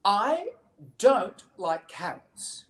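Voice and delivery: slow, emphatic protest, high on "I"; measured out, mildly indignant; stubborn child refusal. Acted. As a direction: refuse like a stubborn little bunny. Voicing Betty refusing carrots.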